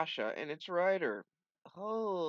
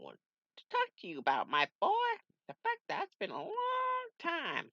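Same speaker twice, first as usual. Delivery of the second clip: mentor voice. Acted. Mentor voice again.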